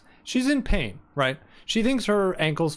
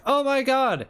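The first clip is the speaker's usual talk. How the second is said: high dismayed gasp; 10 semitones higher, 5 dB louder than usual. Retold or imitated. Voicing Lily's dismay.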